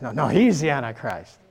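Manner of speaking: a lightly voiced contradicting guesser, insisting a bit; mock rival guesser. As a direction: brush off the first guess. A second mimicked guess contradicting the first.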